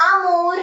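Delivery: teacher modelling Amor; French amor. Shown as a demonstration. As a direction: say Amor as ah-MOR. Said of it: "Amor is to love".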